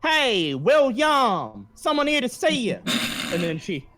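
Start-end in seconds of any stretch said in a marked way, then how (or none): 0.0-2.8 high, loud yell down the phone; shouting into phone. Acted. Receptionist shouting to William on the phone, loud and high. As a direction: bellow for William across the office. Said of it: "simply shouts".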